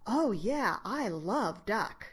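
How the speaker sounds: high, slow, lightly voiced happy little boy; a hint of a small kid's glee; child's delight. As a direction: play the grandson gushing over duck. Grandson's delighted reply.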